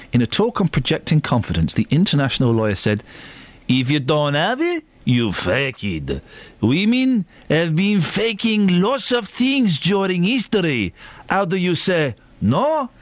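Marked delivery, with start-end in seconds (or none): 3.7-12.9 lightly put-on Spanish accent. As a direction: read the quote in a Spanish accent. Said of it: "doing it in that voice".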